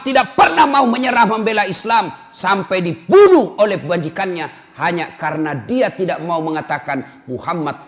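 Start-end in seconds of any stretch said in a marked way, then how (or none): 0.0-2.1 loud, fervent declaration; rousing sermon shout; preacher's shout. Real, not acted. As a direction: cry out the devotion.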